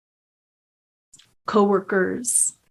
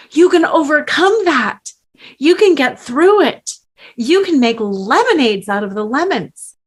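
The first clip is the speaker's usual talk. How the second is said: bright, much higher and louder, parodying pep talk; mock cheerleader advice; 4 semitones higher, 5 dB louder than usual. Coach mocking platitudes told to betrayed women, high and loud. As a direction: sell the lemonade cliché like a hyped cheerleader.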